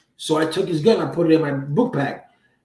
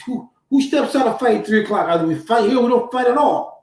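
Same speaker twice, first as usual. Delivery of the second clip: incredulous; 5 semitones higher than usual. Retold or imitated. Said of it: "And I'm like".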